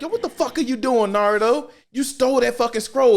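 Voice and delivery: high, scolding call-out; mock angry teacher. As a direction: yell at the kid who stole the scroll. Iruka confronting Naruto.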